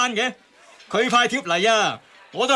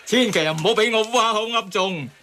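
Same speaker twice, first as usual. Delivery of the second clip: chuckling through the words; a light laugh running under the line; laughing while talking. Real, not acted. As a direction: laugh at your own grim joke. Joking about a cluster infection.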